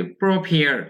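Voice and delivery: "prepare" said clearly as pro-pear; pronunciation demo. Shown as a demonstration. Teacher recalls how to pronounce it for students, clear pronunciation demo. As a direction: model "prepare" with an airy p in -pear. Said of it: "এর আগে আমরা শিখলাম উচ্চারণ".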